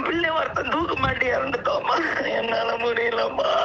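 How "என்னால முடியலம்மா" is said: slow, tearful lament; drawn out through tears; exhausted crying; weeping. Real, not acted. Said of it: "இப்படி கண்ணீர் வடிக்க".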